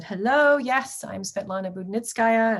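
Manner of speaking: mild retold Russian-accented phone greeting. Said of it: "she had this heavy Russian accent".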